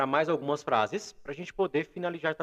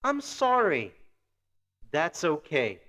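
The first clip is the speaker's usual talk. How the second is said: language-teacher model; much slower than usual. Shown as a demonstration. Model phrases for listen and repeat.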